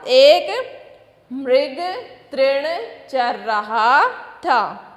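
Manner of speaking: slow, clear reading to a class; slow reading for children. Shown as a demonstration. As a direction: read each phrase slowly so children can follow. Teacher reads text slowly to children. (बच्चों के लिए धीमा पाठ)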